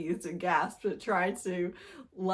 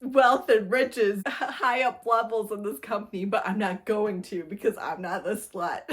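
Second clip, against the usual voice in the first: mock heroine; 7 dB louder than usual. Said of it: "she's all like".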